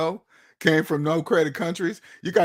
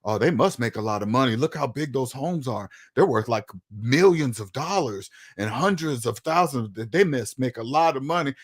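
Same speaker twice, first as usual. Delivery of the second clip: lower, musing about rich Americans; a dreamy, lowered outsider voice; envious musing; 4 semitones lower than usual. Retold or imitated. Foreigner watching American TV, low wistful musing. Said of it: "you're like".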